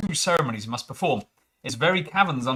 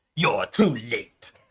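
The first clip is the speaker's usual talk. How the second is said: scornful, contemptuous sneer; 3 semitones lower than usual. Game narrator reading a doctor's line to the arriving expedition, sneering. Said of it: "Havron says with a sneer".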